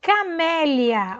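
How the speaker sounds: Camélia said slowly, stressed on MÉ; slow, clear model of Camélia; modelling the word. Shown as a demonstration. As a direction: read it out for the kids. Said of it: "Sabe como lê?".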